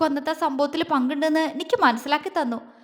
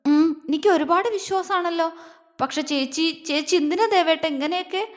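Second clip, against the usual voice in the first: a touch of tears, pitch raised; mild sobbing question; 4 semitones higher than usual. Acted. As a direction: ask through light, held-back sobs. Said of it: "അവൾ തേങ്ങലോടെ ചോദിച്ചു".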